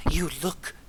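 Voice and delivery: the gnome amazed by her likeness; awed gnome. Acted. Gnome recognizing the princess.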